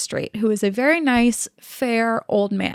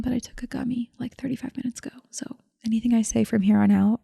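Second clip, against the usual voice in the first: hushed, half-whispered aside to the audience; mock confession; 4 dB quieter, much faster than usual. Mock-confiding secret to the audience.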